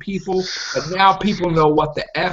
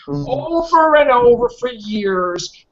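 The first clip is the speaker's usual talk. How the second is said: exasperated rant; 10 semitones higher, much slower than usual. Real, not acted. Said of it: "ranting about the critics".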